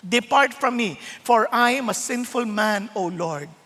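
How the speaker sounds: low, slowing plea, fading at the end; humbled awe. Acted. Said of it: "a sense of awe before Jesus".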